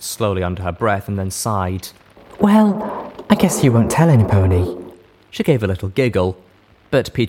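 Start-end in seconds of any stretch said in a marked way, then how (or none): 2.4-4.8 put-on high, loud, giddy young mare. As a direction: chatter happily about the future. Duct Tape conspiratorial.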